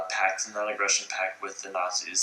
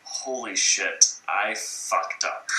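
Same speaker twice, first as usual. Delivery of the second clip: Stalin realising; much slower than usual. Retold or imitated. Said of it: "and Stalin is like".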